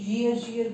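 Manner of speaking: "ईयर" wrongly said with a y glide in front, like "yeer"; common mispronunciation. Shown as a demonstration. Teacher showing students how many say it, "ईयर" with a wrong leading y. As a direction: imitate learners putting a y sound before "ईयर". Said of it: "please उसका pronunciation भी अपनी साथ साथ सुधरेगी".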